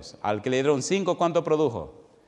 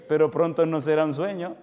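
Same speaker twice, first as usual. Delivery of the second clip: emphatic declaration; 3 semitones higher, 4 dB louder than usual. Acted. Repeats the line, then softly.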